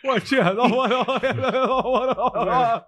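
put-on high, stretched kid whine. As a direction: answer the aunt like a whiny kid. Kid answering aunt in a high voice.

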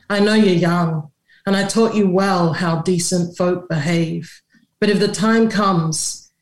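a mother's voice in a poem, read with steady cadence; a measured poem reading, a mother talking to her boy; poetry reading. Acted. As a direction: read the poem as a mama schooling her son. Reads her poem aloud.

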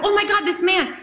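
half-laugh, half-panic. Retold or imitated. Actress retelling the fire, laughing in mock alarm. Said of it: "I go".

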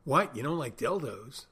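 hammed-up shock at a simple no; incredulous. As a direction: play the baffled barfly who can't believe it. Imagined customer incredulous.

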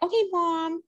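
lightly put-on, high New York kid; fake New York accent. Herself as a child answering mom, fake New York accent. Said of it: "like, a New York accent".

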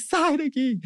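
high, tearful-teen outburst, retold; upset rebuff. Retold crying son rebuffs mother.

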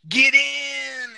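high, loud shouted catchphrase; shouting. Acted. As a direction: belt it out like a hype man.

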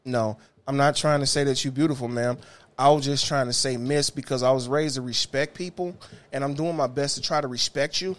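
low, softened voice of respectful explanation; polite, placating. Retold or imitated. Retold polite reply to offended passenger.

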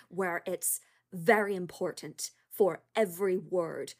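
put-on careful, slowing British-does-American accent; Kate Winslet American accent. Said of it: "has this sound to it".

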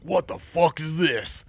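high, drawn-out outraged disbelief; startled henchman. Acted. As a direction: stretch it out in high-pitched shock. Henchman voiced, shocked by crash.

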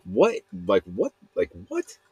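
rising, baffled repeats; puzzled disbelief, last one breathy; confused what. Retold or imitated. Confused by the clapping crowd, baffled repeats. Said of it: "I was like".

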